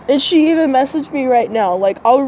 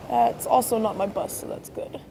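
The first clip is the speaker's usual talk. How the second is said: whispered aside; 9 dB quieter than usual. Real, not acted. Muttered aside waiting for bus.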